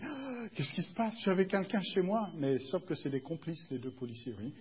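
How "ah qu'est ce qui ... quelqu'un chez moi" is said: put-on high gasping old lady, taken aback; hammed-up shocked reaction; mock alarm. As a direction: play the startled victim, pitched up.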